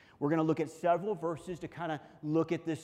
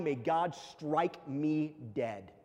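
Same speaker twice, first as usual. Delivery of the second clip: solemn oath; much slower than usual. Acted. Paraphrasing Peter's solemn oath.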